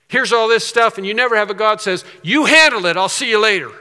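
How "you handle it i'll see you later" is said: raised, louder brush-off, easing at the end; mock dismissal. Preacher voices a God who never says this, dismissive. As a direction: toss the problem back at them, louder at first.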